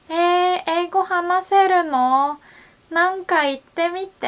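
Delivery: high, quick mock question; bubbly friend pestering; excited friend. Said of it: "usually people would say".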